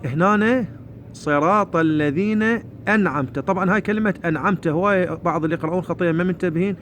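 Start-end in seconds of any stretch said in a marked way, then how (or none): 1.1-3.4 slow, measured Quran recitation; careful teacher's recitation; recitation model. Shown as a demonstration. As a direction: pause before the last word.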